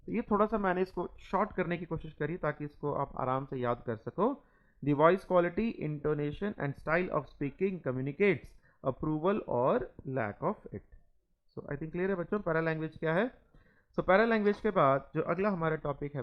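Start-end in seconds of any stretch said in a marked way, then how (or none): 4.8-11.0 each word spaced out for students to copy; slow dictation. Acted. Teacher dictating notes to the class, very slow. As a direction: read it slowly so the class can write.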